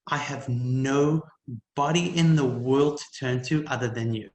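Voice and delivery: slow, pleading plea to God; a hint of tears, dragged out; mild retold crying prayer; retold tearful prayer. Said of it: "I burst into tears and I said".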